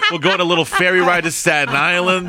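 hammed-up New York accent; pleading New Yorker's accent. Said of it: "New York is the least sexy".

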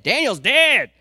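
high, loud wailing cry of grief; lamenting wail. Retold or imitated. King mourning Daniel in the den, wailing high and loud. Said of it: "So he's like".

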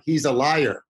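put-on "He's a liar" in a mild Indian accent, lawyer sounding like liar; a hint of an Indian accent, retelling how coworkers introduced him; light Indian accent. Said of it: "with their accent".

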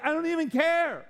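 high, offhand brush-off; dismissive God. Retold or imitated. God shrugging off the hand-washing ritual, dismissive. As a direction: toss it away like it means nothing. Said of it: "and God's like".

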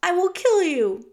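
high, loud threat; small hero vowing to kill; threatening. A narrator's reading. Mouse threatens to kill rat.

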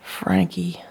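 steady someone gently, voice dropping. Acted. Wife reassures her shaken husband.

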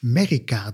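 "Merica" with no opening A, starting on a short Me; alternative pronunciation. Shown as a demonstration. Offering a guess at the book's word, "Merica" said as Merry-ka. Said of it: "dacht ik zelfs".

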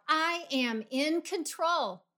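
emphatic, slow affirmation; declaring out loud. Shown as a demonstration. Coach modelling an affirmation for listeners to say out loud, emphatic. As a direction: proclaim it with conviction. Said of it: "say this out loud".

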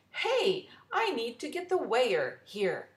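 loud, high call of the fair worker; gruff fair worker. Acted. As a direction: hail her like a busy ticket man. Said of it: "He says".

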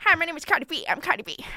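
put-on rapper introduction, starting high. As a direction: start high and drop on the repeat. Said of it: "Can you do the rapper?".

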